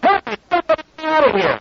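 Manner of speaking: terrified shout from inside the lion's cage; panicked yell. Acted. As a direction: scream for help like your life depends on it. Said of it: "he yells out".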